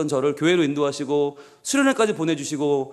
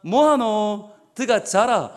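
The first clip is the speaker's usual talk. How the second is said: Gyeongsang dialect; 3 semitones higher, much slower than usual. Retold or imitated. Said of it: "딱 세 마디".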